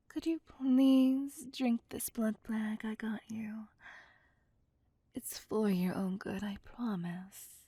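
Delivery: sweeter retry. Acted. Vampire coaxing her captive to drink, syrupy sweet whisper. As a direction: ask again all sugary and polite. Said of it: "so I'll try again".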